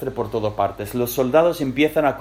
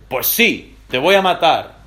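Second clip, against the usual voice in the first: mock stern threat; 3 semitones higher, 4 dB louder than usual. Saúl threatens his son.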